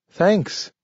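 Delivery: high, talking dog; a dog speaking in a high voice. A narrator's reading. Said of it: "said the dog".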